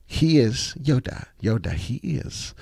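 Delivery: a light mock Yoda, slow, with words turned around. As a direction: lightly play the little Jedi master, slowly. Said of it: "I feel like, uh, Yoda".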